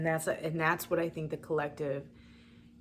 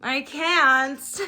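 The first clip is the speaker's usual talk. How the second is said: laughing, can't go on; 8 semitones higher, 12 dB louder, much slower than usual. Real, not acted. Overwhelmed, laughing at herself.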